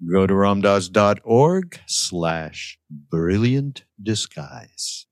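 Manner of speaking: slow, measured plug for a website; drawn-out announcer-style plug, dropping off at the end; mock commercial read. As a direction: spell out the address slowly, like an ad. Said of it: "here's the commercial".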